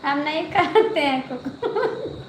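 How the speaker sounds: slow, said through laughter; laughing. Real, not acted. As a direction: laugh while turning it down. Laughs while refusing mushrooms. (हँसते हुए धीरे से)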